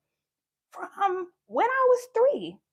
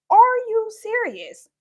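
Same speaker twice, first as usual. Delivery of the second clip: slow, laughing, louder incredulous; laughing disbelief; 2 semitones higher, 6 dB louder, slower than usual. Retold or imitated. Repeated with a laugh.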